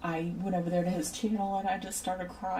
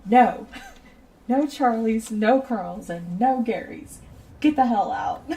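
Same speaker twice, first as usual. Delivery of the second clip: loud, slow mock rant, hammed up; retold shouting; 4 semitones higher, 8 dB louder than usual. A friend banning Gary names, in a loud mock shout. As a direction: bellow the ban like an exasperated friend. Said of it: "He's like".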